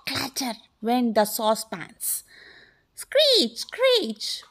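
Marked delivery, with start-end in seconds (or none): 2.9-4.4 very high-pitched squeal; possum screech. A narrator's reading. Possum running off through the house, high screech. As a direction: screech like a startled little animal. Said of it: "went the possum".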